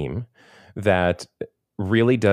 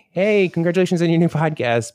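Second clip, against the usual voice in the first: cheesy celebrity shoutout; 9 semitones higher than usual. Pretend. Mock Cameo celebrity greeting.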